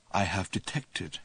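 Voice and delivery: low, slow hushed secret; whisper. A narrator's reading. Ford confiding to Arthur in a slow hush. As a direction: drop to a hush, conspiratorial. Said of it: "He lowered his voice to a whisper".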